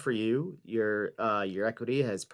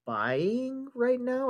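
mock dramatic; 13 semitones higher, much slower than usual. Mock-dramatic advice delivery.

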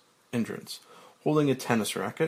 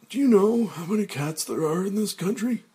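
cold; 9 semitones higher, 4 dB louder than usual. Acted. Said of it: "It's cold".

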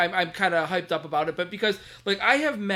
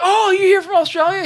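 eager retold question; 13 semitones higher, 7 dB louder than usual. Retelling eager question to Ian.

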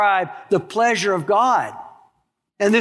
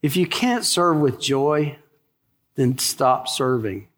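low, slow, gentle admonishment; as lovingly as possible; 5 semitones lower, slower than usual. Real, not acted. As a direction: ease down into a tender, deliberate correction. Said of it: "say this as lovingly as possible".

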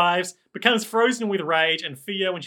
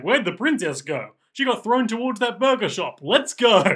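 seven dwarves rallying; 5 semitones higher, 4 dB louder than usual. Acted. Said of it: "the seven dwarves are like".

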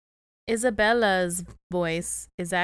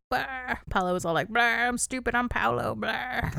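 put-on dopey Italian accent, higher, whining Bah; 5 semitones higher than usual. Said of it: "all in an Italian accent".

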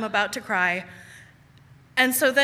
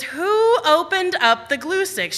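slow, stern and higher; stern mother; 7 semitones higher, 4 dB louder, slower than usual. Retold or imitated. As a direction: ask it like an angry mom. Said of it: "her say my name like that".

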